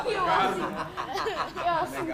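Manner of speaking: words squeezed out through laughter; laughing while talking. Real, not acted. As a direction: keep laughing as you say it. Conta rindo. (falando e rindo ao mesmo tempo)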